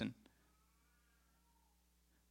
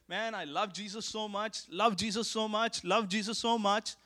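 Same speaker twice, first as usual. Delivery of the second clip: higher-pitched, repetitive declaration of devotion; mock gushing; 4 semitones higher than usual. Preacher imitating mere talk of loving Jesus, mock gushing. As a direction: act out easy, gushing talk of love. Acts out repeated empty declarations of love.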